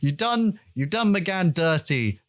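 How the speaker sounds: mock indignant rant. Real, not acted. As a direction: scold the BBC in mock outrage. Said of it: "And it pisses me off".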